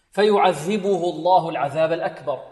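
فيعذبه with the tongue tip at the teeth on ذ; clear dhal. Shown as a demonstration. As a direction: show the ذال clearly. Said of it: "الذال هنا معجمة". (ذال واضحة)

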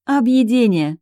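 laughing through a mouthful of apple; bright laugh, mouth full of apple. Acted. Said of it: "рассмеялась, о ужас, с набитым ртом".

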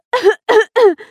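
loud, high hammed-up cough; fake cough. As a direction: cough theatrically. Faking a cold on the phone. (нарочитый кашель)

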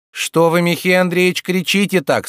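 high, loud protesting housekeeper; alarmed women. Acted. Landlady looks in at the shouting, alarmed protest.

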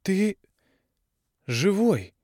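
put-on girl blurting it out, half choked; young woman's shaken outburst; forced-out outburst. A narrator's reading. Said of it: "выдавила Тави".

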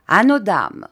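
rowdy drinking toast. A narrator's reading. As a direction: lift the glass and call it out. Officer's toast at dinner.

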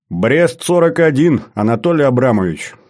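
pleased, smiling recognition. Acted. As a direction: say it through a smile, savouring the reveal. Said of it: "с улыбкой сказал я".

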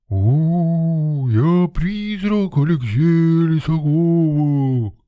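high, slow, howling mock ghost; clowning spook in a nasal film-dubber voice; nasal ghost wail. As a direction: wail it through the nose, fooling around. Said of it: "завыл я гнусавым голосом переводчика видеофильма".

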